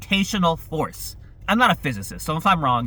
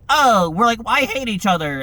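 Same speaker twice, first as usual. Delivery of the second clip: mock drama; 4 semitones higher, 4 dB louder than usual.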